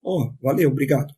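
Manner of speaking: easy, sincere thank-you; acted-out honest gratitude, casually said; genuine thanks. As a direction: thank them simply and mean it. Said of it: "Era, era genuíno".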